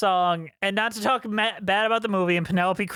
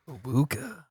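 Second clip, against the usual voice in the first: soft, lower trailing awooga; ahooga horn; 4 semitones lower, 4 dB quieter than usual. Shown as a demonstration. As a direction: let the awooga fade out. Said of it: "So it's more like".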